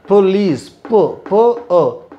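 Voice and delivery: police broken into po- po-; syllable drill. Shown as a demonstration. Teacher breaks the word into syllables for students. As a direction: stretch out the po- of police. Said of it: "drills the syllables".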